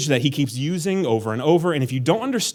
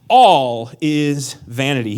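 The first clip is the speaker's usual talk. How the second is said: slow proclaimed; 2 semitones lower, 4 dB louder, much slower than usual. Shown as a demonstration. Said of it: "so you gotta yell that".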